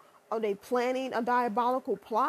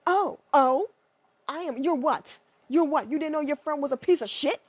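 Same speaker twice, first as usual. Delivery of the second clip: louder mock surprise; loud fake shock; 4 dB louder than usual. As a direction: gasp out the friend's shock.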